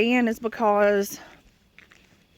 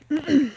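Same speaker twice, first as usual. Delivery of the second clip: winded exhale; 3 semitones higher than usual. Real, not acted. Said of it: "I'm out of breath".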